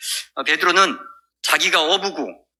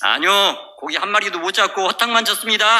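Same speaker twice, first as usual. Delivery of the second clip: raised-pitch reply across a distance; calling back; 4 semitones higher than usual. Retold or imitated. Fishermen answer the stranger on shore, calling back.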